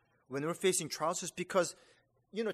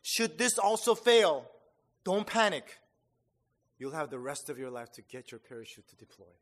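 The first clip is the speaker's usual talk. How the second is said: slow mischievous deadpan; 2 semitones lower, 6 dB louder than usual. Retold or imitated. Sergeant teasing trainees about a failed chute, slow sly deadpan. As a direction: deliver the punchline slowly with a sly grin. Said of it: "with a slight mischievous grin, he slowly stated".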